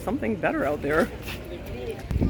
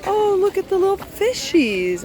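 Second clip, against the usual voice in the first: high, excited coo over little fish; cooing at the little fishies in the fountain; delighted; 9 semitones higher than usual. Real, not acted.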